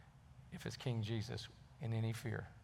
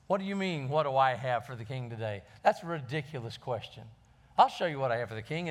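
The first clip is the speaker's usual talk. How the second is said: indignant beggar; 3 semitones higher, 6 dB louder than usual. Acted. Beggar scoffing at the king's footman, indignant and loud. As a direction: scoff at the absurd question, building to a loud rant.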